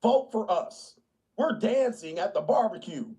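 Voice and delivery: lightly voiced campaigning liberal; hint of look-at-us glee; pandering politicians. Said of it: "They be like".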